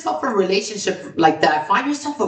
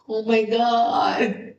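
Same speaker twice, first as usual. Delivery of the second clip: awed oh my god; 3 semitones higher, much slower than usual. Retold or imitated. Friend bought a house, reacting.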